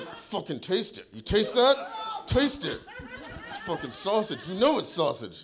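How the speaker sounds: high, loud screaming while pounding the counter. Retold or imitated. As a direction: yell it so she has to taste it. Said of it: "I'm screaming at the top of my lungs".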